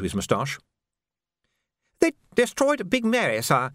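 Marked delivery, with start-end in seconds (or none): 2.0-3.7 put-on high, nervous young soldier; urgent panting report. A narrator's reading. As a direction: blurt the bad news anxiously.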